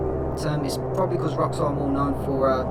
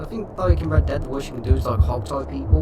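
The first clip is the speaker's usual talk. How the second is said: half robot voice. Real, not acted. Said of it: "Why do I sound like a robot?".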